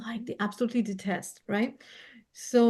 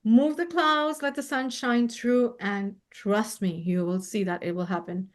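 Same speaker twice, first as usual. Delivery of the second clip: prayer to angels. Shown as a demonstration. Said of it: "talk to your angels and say".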